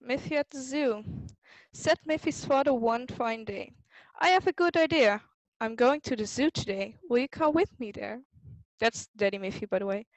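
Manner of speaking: put-on lively storybook read for kids; reading to children. A narrator's reading. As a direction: read it like a bedtime picture book. Reading picture book aloud.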